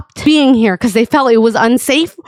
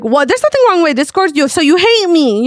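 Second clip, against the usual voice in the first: higher, hammed-up hurt protest; mock offended; 5 semitones higher than usual. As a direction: imitate an offended friend, pitched up. Acting out his offended reply.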